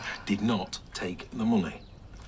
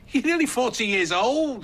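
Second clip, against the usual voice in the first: high-pitched scoffing disbelief; exasperated, high and mocking; incredulous jibe; 12 semitones higher, 4 dB louder than usual. Incredulous jibe in family row.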